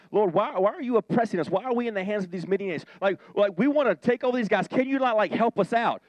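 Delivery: half-hearted complaining Gideon; mild mock pleading. Gideon cries out to God, a touch whiny. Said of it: "Gideon's, like, crying out".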